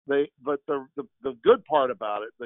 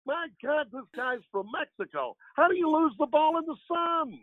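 Harry Caray impression; 11 semitones higher than usual. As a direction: do the old Cubs announcer, hamming it up. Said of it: "that's a little bit of Harry there for you".

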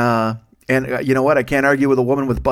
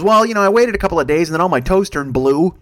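mom voice; 4 semitones higher, 4 dB louder than usual. Retold or imitated. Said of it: "She goes".

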